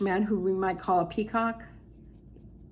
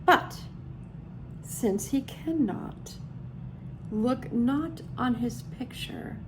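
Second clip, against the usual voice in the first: poem reading; 2 semitones higher than usual. Real, not acted. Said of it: "You want me to try?".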